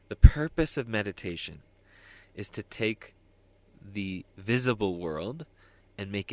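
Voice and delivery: pronounced opening of a wise quote; emphatic quotation. Retold or imitated. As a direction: announce it like a weighty saying. Announced quote from a wise teacher.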